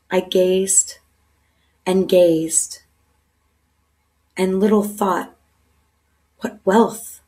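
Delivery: measured poetry recital, lingering on the lines; poem recitation. Shown as a demonstration. Speaker recites a favourite Wordsworth poem for listeners, measured poem recitation. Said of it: "I will recite this poem for you".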